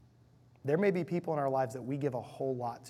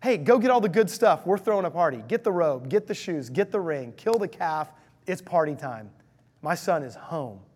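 joyful father; 3 semitones higher, 8 dB louder than usual. Acted. Father orders servants to prepare homecoming feast, joyful loud shout. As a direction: shout the good news to the whole household. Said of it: "again, rejoicing, joyful, welcoming".

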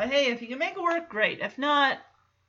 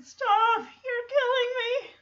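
laughing plea; 13 semitones higher, slower than usual. Retold or imitated. Stephanie laughing as they hug.

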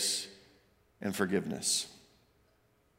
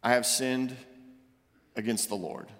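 contrite; 5 semitones lower, 3 dB quieter than usual. Acted. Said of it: "Then David said to Nathan".

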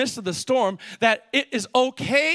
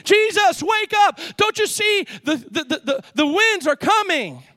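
higher, pleading wake-up call; urgent plea; 6 semitones higher than usual. Acted. Disciples shaking Jesus awake in the storm, urgent higher plea. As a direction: beg him to wake up, alarmed.

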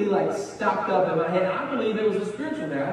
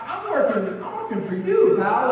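sarcastic retort; 3 semitones higher, 4 dB louder than usual. Retold or imitated. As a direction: throw the word pal back at him. Retelling his triggered retort.

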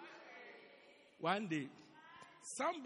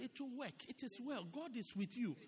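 gentle reassurance; 4 dB quieter than usual. Shown as a demonstration.

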